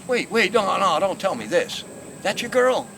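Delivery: loud, high mock disbelief; stunned disbelief. Rival learns that the woman is this man's girl, stunned. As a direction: protest in shock, voice jumping up.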